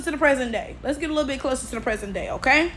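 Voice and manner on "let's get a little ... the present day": much softer, rushed echo; quiet fast repeat. Shown as a demonstration. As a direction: toss the repeat off under your breath.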